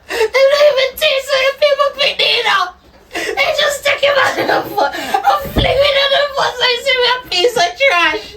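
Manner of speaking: crying grief. Acted. Mother sobs over son's body.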